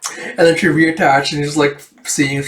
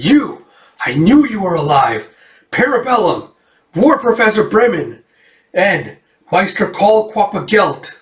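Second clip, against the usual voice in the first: shouted recognition; 6 semitones higher than usual. Acted. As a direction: yell at old enemies as they arrive. Erica recognizes enemies, calling out names.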